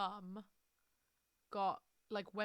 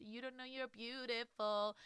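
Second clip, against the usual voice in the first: dreamy romance line; 4 semitones higher than usual. Retold or imitated. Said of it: "Like, that kind of vibe".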